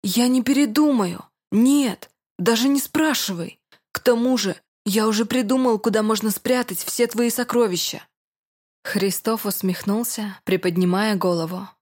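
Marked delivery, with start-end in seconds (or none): 0.0-8.1 defiant excited. Acted. Deacon stubbornly refuses, excited.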